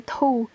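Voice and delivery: "tou" as one syllable with no final r; blended syllable demo. Shown as a demonstration. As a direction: model "tou" ending on its vowel. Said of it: "ça fait".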